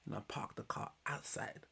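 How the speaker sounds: soft unvoiced whisper; whispered secret. Retelling Kieran's confession to Luke in a whisper. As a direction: breathe it like a secret. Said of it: "Between me and you".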